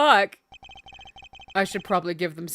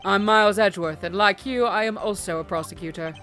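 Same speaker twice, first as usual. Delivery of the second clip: cool prosecutor voice; 5 semitones lower, 3 dB quieter than usual. Acted. Voicing Edgeworth, low and cool.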